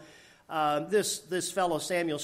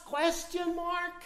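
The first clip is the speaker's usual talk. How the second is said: pointed rhetorical aside; emphatic aside; 13 semitones higher, 4 dB quieter than usual. Acted. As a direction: lean on it like a punchline.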